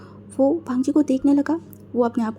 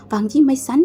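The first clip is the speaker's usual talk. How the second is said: louder call of my son; shouting Wangji; 5 dB louder than usual. Acted. Uncle shouting again to Wangji, louder call. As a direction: shout his name to snap him back. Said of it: "वो फिर से चिल्ला के बोला".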